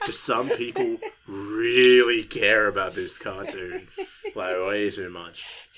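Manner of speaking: laughing through the words. Retold or imitated. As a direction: laugh while answering your mom. Laughing reply to his mom.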